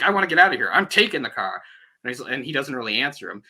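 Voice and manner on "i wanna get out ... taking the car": raised-voice imitation of a fed-up man; mock mad. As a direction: act out his angry insistence, easing off toward the end. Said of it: "He's getting really mad".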